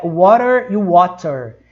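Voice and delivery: "water" said twice very slowly in English; slow model of "water" for learners; English word demo. Shown as a demonstration. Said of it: "eu falei pra vocês da palavra". ("water" bem devagar, em inglês)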